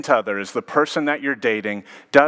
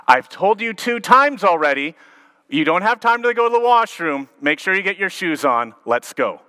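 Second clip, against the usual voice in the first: yelling mom; 7 semitones higher than usual. Retold or imitated. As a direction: snap at the kid who won't listen. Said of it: "this mom who had just finished yelling".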